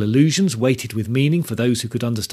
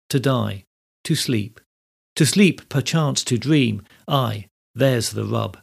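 natural-sounding verse recitation. Shown as a demonstration. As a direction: recite Hamlet's speech without overstressing the iambic beat. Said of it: "I deliberately read it without overstressing the rhythm".

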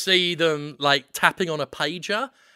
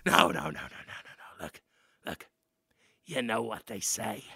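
low rat man elder; a hint of a hushed old rat dad; low, quiet rat father; 9 semitones lower, 6 dB quieter than usual.

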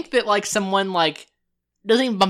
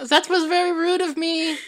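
laughing apology; 9 semitones higher than usual. Acted.

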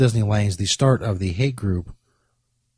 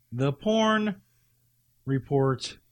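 much softer, drawn-out teaser; hushed dramatic announcement; 2 semitones higher, 7 dB quieter, much slower than usual. Shown as a demonstration. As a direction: breathe the title like a secret.

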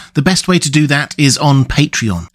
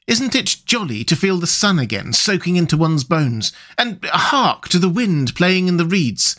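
a hint of a higher rat voice, dreamy and content; lightly voiced Rat; 4 semitones higher than usual. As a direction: Rat savouring the sun and the wind, lightly voiced. Rat speaking in story.

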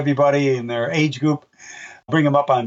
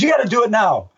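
demanding Aussie fan; 8 semitones higher than usual. Retold or imitated. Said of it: "He goes".

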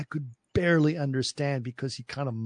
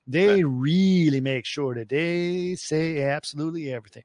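Georgia accent. Shown as a demonstration. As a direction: stretch each word, Georgia-style. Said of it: "make sure you understand absolutely every single word".

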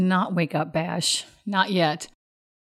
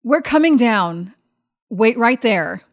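calling down; 3 semitones higher, 4 dB louder than usual. Acted. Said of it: "So she calls down to Northry".

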